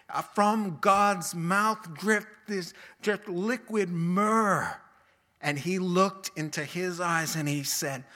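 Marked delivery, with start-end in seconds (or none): 0.1-4.8 slow, lingering words; slow savoring. Acted. Preacher savoring God's words to the congregation, slowly. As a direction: draw each word out slowly.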